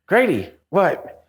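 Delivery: slow, high alarmed question; startled, calling out his name. Retold or imitated. Alarmed call to friend.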